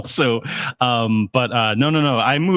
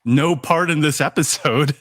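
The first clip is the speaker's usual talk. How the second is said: laughing quote. Retold or imitated. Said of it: "but they said".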